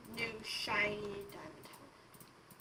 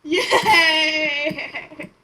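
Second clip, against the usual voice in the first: cheering; 3 semitones higher, 13 dB louder than usual. Real, not acted.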